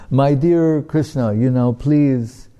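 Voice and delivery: put-on a boy politely coaxing his deity; earnest entreaty. Boy begs deity to eat.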